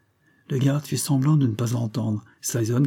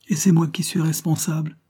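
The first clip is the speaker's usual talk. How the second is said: higher, louder biting sarcasm; sarcastic; 6 semitones higher, 4 dB louder than usual. A narrator's reading. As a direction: throw the question back at him with scorn. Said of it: "dit-elle, sarcastique".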